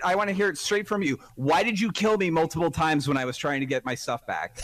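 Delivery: stern scolding, like an angry mom; scolding by full name. Real, not acted. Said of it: "Sounds like an angry mom about to scold his kid".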